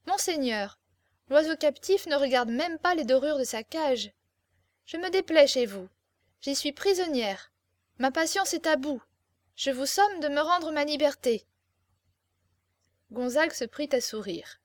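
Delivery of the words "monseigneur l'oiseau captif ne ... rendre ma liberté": slightly raised, impatient captive lady; lightly acted imperious captive; proud captive. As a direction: lodge an indignant complaint with your lord. Captive demands her liberty.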